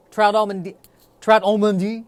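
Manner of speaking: a clumsy mock French accent on trout almondi; bad French accent. Shown as a demonstration. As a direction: mangle it like a bad French waiter. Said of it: "giving a bad French accent".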